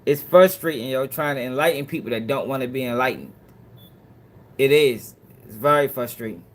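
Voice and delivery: tired voice, nearly losing it. Real, not acted. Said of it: "I'm damn near losing my voice".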